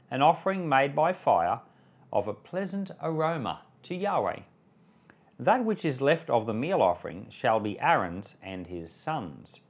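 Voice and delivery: measured, solemn Bible reading voice; scripture reading. A narrator's reading. Reads the Leviticus passage aloud.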